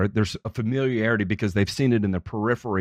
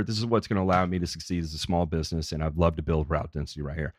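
softer, lower, confiding sales pitch; sincere appeal; 4 semitones lower, 3 dB quieter than usual. Shown as a demonstration. Small business owner asking a customer for referrals, sincere. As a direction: ask gently for a personal favor.

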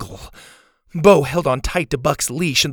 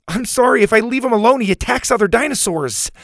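put-on higher, anxious boyish voice; boy apologizing; 9 semitones higher, 3 dB louder, faster than usual. A narrator's reading. Bo apologizing to the teacher, anxious and high. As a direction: plead your case nervously.

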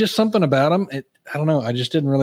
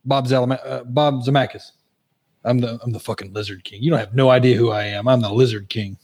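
lower-pitched, lightly voiced sly character; Robert California; 3 semitones lower than usual. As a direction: quote a sly TV character in a slightly put-on low voice. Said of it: "and he goes".

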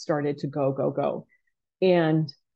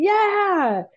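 a high, loud whoop of victory; triumphant cheer; 4 dB louder than usual. Retold or imitated. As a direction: lift the trophy and whoop. Hoisting the trophy, cheering.

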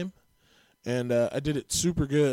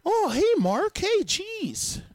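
high-pitched caricature of a white guy; regular white guy; 4 dB louder, much slower than usual. Shown as a demonstration. Comic demonstrating his white accents, regular guy in high voice. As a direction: pitch it way up, hammed-up friendly greeting. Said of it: "that's just a regular white guy".

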